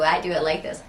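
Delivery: speaking through a mascara face; applying mascara. Real, not acted. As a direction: mouth stretched in a mascara face. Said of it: "stupid mascara face for concentration".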